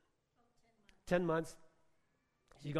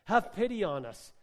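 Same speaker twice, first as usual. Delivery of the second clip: raised, higher call for pity; mild retold shout; 3 semitones higher, 5 dB louder than usual. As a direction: call out to someone passing, without full force. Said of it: "they shout out to him".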